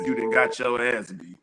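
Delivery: hushed, breathy whisper. Real, not acted. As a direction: whisper it like a warning. Warning about hood attacks.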